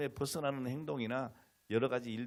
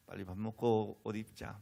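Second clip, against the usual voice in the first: gentle coaxing. Retold or imitated. Father getting daughter ready for church, coaxing. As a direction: coax a child to get ready. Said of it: "아, 달래는 거죠".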